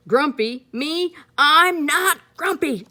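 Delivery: high, loud offended protest; indignant denial. Acted. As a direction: insist you're fine, offended. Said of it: "said Jim".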